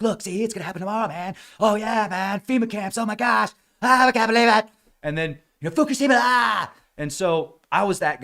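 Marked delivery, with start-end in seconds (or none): 0.0-4.7 high, frantic imitation of a doomsayer; mock doom rush. Doom article reader getting a rush, hammed-up panic. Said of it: "physical rush from doom". 5.7-6.7 high, loud fake scream; hammed-up wail of a panicking doomsayer; mock doom panic. Doom article reader getting a rush, mock screaming panic. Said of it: "physical rush from doom".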